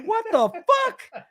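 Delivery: slow, very high incredulous cry; retold shock. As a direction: draw it out high in stunned disbelief. Retold shock at drawn guns.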